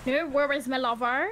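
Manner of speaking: hammed-up Bristol impression; imitating friend's Bristol accent. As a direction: copy her Bristol phrase, teasing. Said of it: "I'm doing you".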